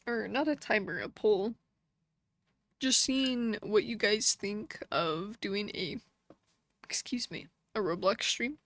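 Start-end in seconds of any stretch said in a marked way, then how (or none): 2.8-8.6 talking through the hiccups. Real, not acted. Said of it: "I have the hiccups".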